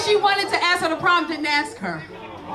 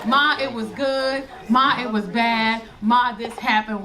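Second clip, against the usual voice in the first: gushing daughter; 5 semitones lower than usual. Retold or imitated. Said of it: "She don't talk like that".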